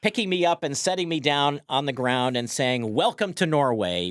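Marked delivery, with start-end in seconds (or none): 2.9-4.1 light Norwegian accent, retold; hint of a Norwegian accent. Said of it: "in her Norwegian accent".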